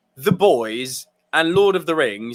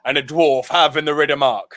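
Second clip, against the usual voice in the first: put-on British accent, measured challenge; British film-hero accent; 4 semitones lower than usual. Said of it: "There, he sounded British".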